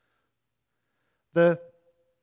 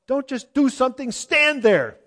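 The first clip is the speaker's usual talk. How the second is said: high, loud frantic yell; Curly's frantic yell; 10 semitones higher, 12 dB louder than usual. Retold or imitated. Preacher imitates Curly yelling at the other Stooges, high loud panic. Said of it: "all of a sudden he yells".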